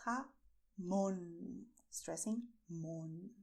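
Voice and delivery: "jamón" slow, with a lengthened MON; stress on MON. Shown as a demonstration. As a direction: lean on the O of "jamón". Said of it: "it's very important that you stress the letter O".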